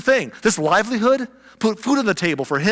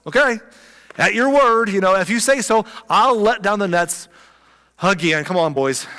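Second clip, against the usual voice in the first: Simon's eager, raised, higher voice, shrugging along; Simon agreeing; 4 semitones higher, 5 dB louder than usual. Retold or imitated. Simon tells Jesus he'll drop the nets, in an eager, raised voice. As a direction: go along with it, lifting the voice. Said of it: "so Simon's like".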